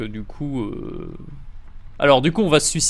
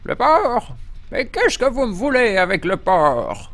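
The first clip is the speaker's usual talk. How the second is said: mock indignation; 6 semitones higher, slower than usual. Acts indignant at an unseen caller.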